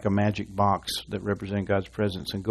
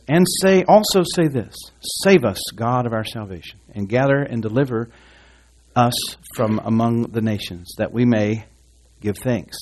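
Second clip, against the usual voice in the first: scripture reading aloud; 3 dB louder than usual. Real, not acted. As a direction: proclaim it to the congregation. Reads the psalm aloud to congregation.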